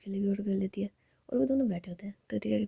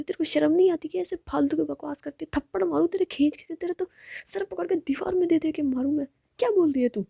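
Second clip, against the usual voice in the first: high, loud furious tirade; furious scolding; 6 semitones higher, 4 dB louder than usual. Acted. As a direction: threaten her like you mean it. Furious threats to partner. (पत्नी पर ऊँची आवाज़ में गुस्से से चिल्लाना)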